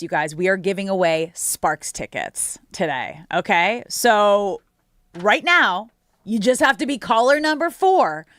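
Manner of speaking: upbeat promo read; radio contest promo. Acted. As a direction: pitch the giveaway to callers. Reads a ticket giveaway promo.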